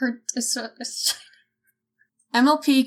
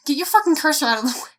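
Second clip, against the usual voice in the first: fast exasperated snap; 4 semitones higher, 3 dB louder, much faster than usual. Real, not acted. Snapping at friend moving cursor.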